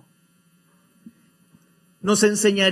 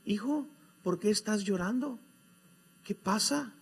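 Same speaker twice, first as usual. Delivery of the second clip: dismayed father; 4 semitones higher, 8 dB quieter than usual. Acted. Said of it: "consternado el padre".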